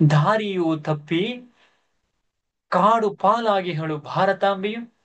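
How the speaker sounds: anguished. Acted. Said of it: "Siddhartha ವ್ಯಾಕುಲತೆಯಿಂದ".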